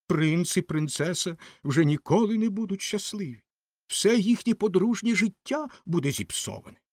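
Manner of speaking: lightly voiced figure dramatizing everyone's misfortune; mildly plaintive self-important lament; self-pitying Rocket.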